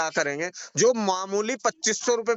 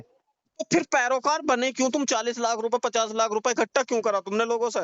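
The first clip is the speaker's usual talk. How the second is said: higher, insistent challenge; angry accusation; 4 semitones higher than usual. Real, not acted. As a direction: demand he explain himself. Heated phone argument, accusing.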